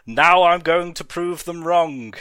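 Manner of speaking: loud, high furious scream. Acted. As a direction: scream it at the world. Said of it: "screamed Moreau".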